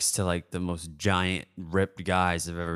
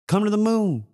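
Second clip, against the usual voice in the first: hawker voice; 12 semitones higher than usual. Retold or imitated. Friend voiced hawking the event.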